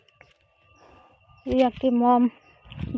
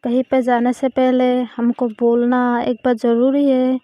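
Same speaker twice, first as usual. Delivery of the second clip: louder, sharp telling-off from an annoyed mom; scolding mother; 5 dB louder than usual. Acted. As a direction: scold her like a mother whose child slipped out. Mom scolds Riya for not telling. (गुस्से में डाँटती माँ)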